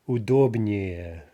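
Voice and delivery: "удобнее" slowly, stress kept on the -доб- syllable; no stress shift. Shown as a demonstration. Teacher forming a comparative, "удобнее" slow with stem stress. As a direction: hold the stress on the stem in "удобнее", ending unstressed. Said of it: "no stress shift".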